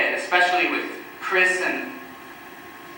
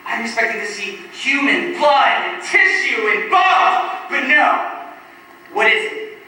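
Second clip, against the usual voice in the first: pitched-up, intense horror-tale climax; mounting morbid excitement; 5 semitones higher, 3 dB louder than usual. Acted. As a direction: relish each gruesome item, drawing out the last. Gruesome fantasy building to reveal.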